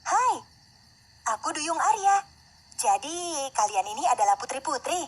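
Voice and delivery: high-pitched mermaid saying hello; friendly mermaid princess. Acted. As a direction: introduce yourself in a high princess voice. Mermaid introduces herself to princesses.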